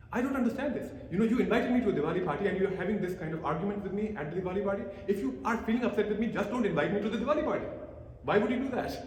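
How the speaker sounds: half-acted complaint, rising in pitch; mildly upset brother asking why; indignant brother. Younger brother complains after party.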